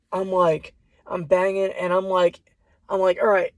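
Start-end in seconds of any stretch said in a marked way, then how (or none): 3.2-3.5 mild retold yell, a little raised; half-yell the plea as if through a door. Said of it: "I'm yelling all this through the door".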